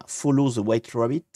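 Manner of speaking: English in a heavy French accent; French-accented English, thick and unhidden. Real, not acted. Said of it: "avec mon accent anglais qui cou".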